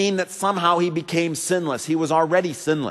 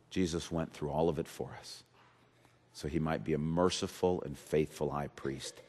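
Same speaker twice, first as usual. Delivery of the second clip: much softer and lower, gentle and close; quiet tender sermon; 13 semitones lower, 12 dB quieter than usual. Acted. Pastor voices Jesus comforting the fearful, soft and low. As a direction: lean in and console a frightened listener.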